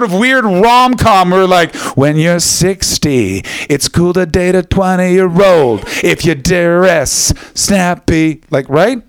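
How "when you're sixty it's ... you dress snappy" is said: slow, drawn-out mock sales line. Comic mocking the show's creepy rom-com writing, slow and sarcastic. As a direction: stretch every word out in mockery.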